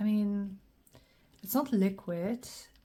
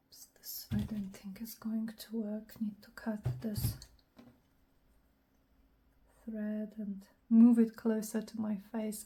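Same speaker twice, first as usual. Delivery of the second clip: whispering. Acted. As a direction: whisper to yourself while working. Whispered crafting commentary.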